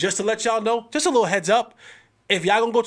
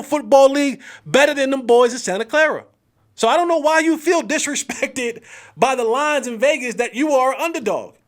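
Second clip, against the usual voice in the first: scolding a player; 4 semitones higher than usual. Retold or imitated. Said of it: "And I'm like".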